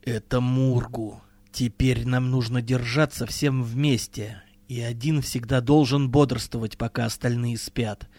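low, quiet, grim warning. Acted. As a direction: sombre leader warning of death. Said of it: "мрачно сказала Махаст".

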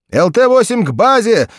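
loud, high alarmed pilot call; changed voice. A narrator's reading. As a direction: sound shaken, calling base. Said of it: "совершенно изменившийся".

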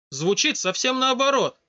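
put-on startled girl almost cries out at the voice; almost crying out. A narrator's reading. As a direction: nearly shout it back at him. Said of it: "почти вскричала девушка".

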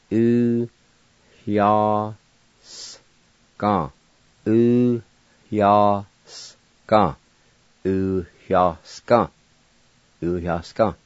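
slow Cherokee syllables, breathing an H after U; Cherokee word uyasga. Shown as a demonstration. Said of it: "And it sounds like this".

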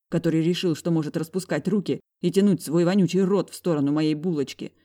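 usual speaking voice

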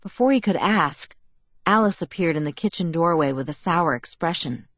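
ordinary delivery, nothing marked

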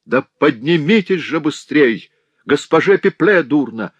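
high, loud alarm; urgent shout. A narrator's reading. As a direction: raise the alarm, pressing. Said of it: "ещё настойчивее".

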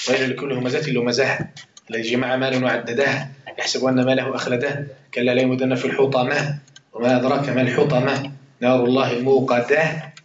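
measured, chanted reading of the verses, slowing at the end; Quran recitation. Acted. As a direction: recite the verses with reverence, drawing out the last line. (تلاوة قرآنية مرتلة ببطء)

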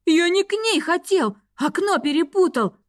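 high, whining protest; wailing excuse. A narrator's reading. Student wailing his excuse to the rector, high whine. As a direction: howl out the excuse. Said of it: "взвыл Петерс".

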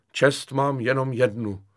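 slow, solemn pathos; grandly pathetic. Acted. Kefalín defends his honour to lieutenant, pompous pathos. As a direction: declare it with lofty self-importance. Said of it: "řekl pateticky Kefalín".

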